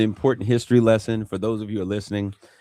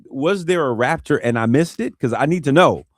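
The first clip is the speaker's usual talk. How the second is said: joking; 5 semitones higher, 5 dB louder than usual. Retold or imitated. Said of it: "I made a joke".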